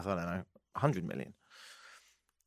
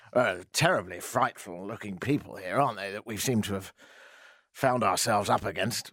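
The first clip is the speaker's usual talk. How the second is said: lower, mock upper-class colonial voice; English colonialist; 6 semitones lower than usual. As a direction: send up a snooty colonial Englishman. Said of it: "like the English colonialists in India".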